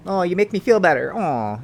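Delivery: high, loud "oh", lightly acted; gushing pet owner. Owner telling support animal it helps, gushing. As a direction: put on a gushing, comforted owner.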